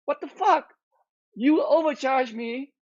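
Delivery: mock outrage, cranking up the disbelief; exasperated retold outburst. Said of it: "I'm like".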